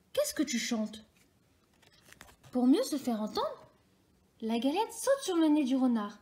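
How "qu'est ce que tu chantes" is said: sly whisper. A narrator's reading. Fox pretends to be deaf.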